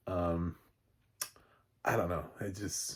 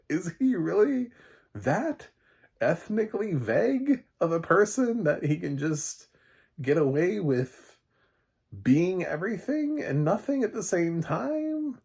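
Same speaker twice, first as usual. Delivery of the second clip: incredulous rant; 11 semitones higher, 6 dB louder than usual. Real, not acted. Ranting about Rob Schneider's roles.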